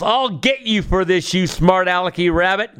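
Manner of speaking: a half-hearted storyteller's yell. Acted. Brer Fox covered in bees, mild mock yell at the rabbit. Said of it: "Fox yells".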